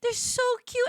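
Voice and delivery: high squealing kitten gush; freaking out over kittens. Retold or imitated. Streamer retelling squealing over a litter of kittens. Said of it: "I was just like".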